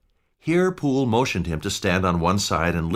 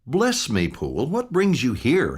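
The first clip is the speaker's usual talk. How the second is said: surprised cry; 6 semitones higher than usual. A narrator's reading. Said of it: "he cried".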